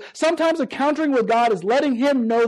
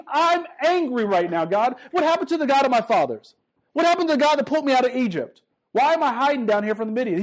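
mild mock anger. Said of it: "He's mad".

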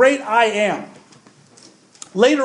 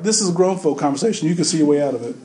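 lightly voiced auntie, lower pitch; auntie's put-down; 5 semitones lower, faster than usual. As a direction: dismiss a child from grown-ups' talk. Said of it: "she would look at you and say".

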